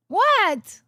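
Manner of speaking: sudden loud, high shocked outburst; shocked what. Real, not acted. Streamer yelling at her friend in disbelief, shocked loud. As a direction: blurt it out in disbelief.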